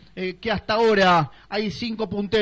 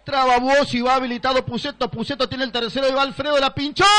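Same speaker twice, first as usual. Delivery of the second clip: rising excitement; 4 semitones higher than usual. Real, not acted. Goal chance builds in commentary.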